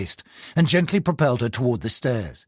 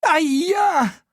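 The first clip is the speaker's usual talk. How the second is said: muttered exclamation. Acted. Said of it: "she muttered to no one in particular".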